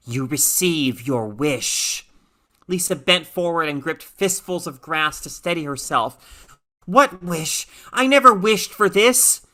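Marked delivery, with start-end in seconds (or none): 0.1-2.1 slow alien voice, only lightly changed; a hint of an otherworldly presence. A voice inside Lisa's head, lightly alien. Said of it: "Inside her brain, yet not hers". 6.8-9.5 higher, louder panicked protest; frightened protest. Acted. Lisa answers the voice in her head, panicked.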